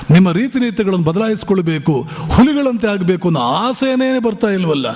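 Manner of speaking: as Vivekananda, scold the nation with anguish; impassioned rebuke. Retold or imitated. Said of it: "ಅಂತಾರೆ". (ಆವೇಶದ ಗದರಿಕೆ)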